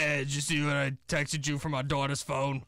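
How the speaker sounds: lightly voiced old New York lady; teasing New York-accented caricature; mock New York accent. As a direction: imitate a coworker as a New Yorker. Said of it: "that's how you sound to me".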